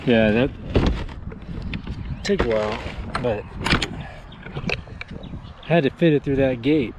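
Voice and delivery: winded after heavy lifting; puffing between words; out of breath. Real, not acted. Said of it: "Sorry, I'm out of breath".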